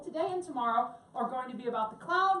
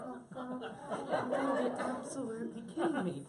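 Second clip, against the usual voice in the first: laughing disbelief; 5 dB quieter, slower than usual. Retold or imitated. Retold reaction, laughing.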